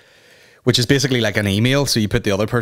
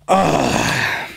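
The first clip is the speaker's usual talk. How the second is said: cringing groan; 5 semitones higher than usual. Pretend. Groan after retold embarrassing joke.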